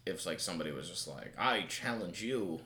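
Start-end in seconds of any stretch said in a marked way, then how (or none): 1.4-2.6 mock formal challenge. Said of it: "the way you said it".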